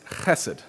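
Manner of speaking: "chesed" with the weight on "che"; stress on first syllable. Shown as a demonstration. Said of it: "Emphasis on that first syllable".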